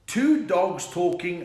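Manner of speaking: normal talking voice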